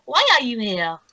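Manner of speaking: put-on slightly high French accent; French-accented questioning. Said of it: "Fiora goes".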